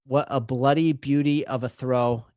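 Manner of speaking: amateur attempt at an Australian accent; lightly put-on Australian accent. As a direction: do your best casual Aussie accent. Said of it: "in the best Australian accent I can muster".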